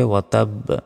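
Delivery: "ওয়া তাব" with the final b bounced; stopped qalqala ending. Shown as a demonstration. Teacher shows the pause form, "তাব" with echoed b. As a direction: end "তাব" on a pushed, vowelless b. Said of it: "তখন উচ্চারণ হবে".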